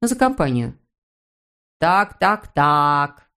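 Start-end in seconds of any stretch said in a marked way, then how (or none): 1.8-3.3 slow drawling so so so; drawn out. A narrator's reading. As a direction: stretch each word. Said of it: "протянула женщина".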